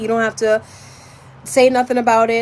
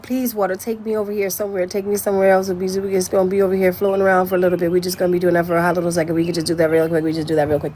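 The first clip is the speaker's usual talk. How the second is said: rapid-fire pleading; 3 semitones lower, faster than usual. Acted. Acts out begging the water.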